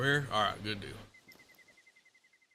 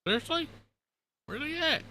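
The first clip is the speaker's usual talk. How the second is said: incredulous. Real, not acted. Asked again, much higher pitch.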